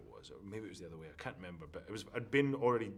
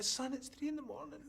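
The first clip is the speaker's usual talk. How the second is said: much higher, imitating his woken mother; sleepy mum. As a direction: play his mum, roused at three in the morning. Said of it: "She's like".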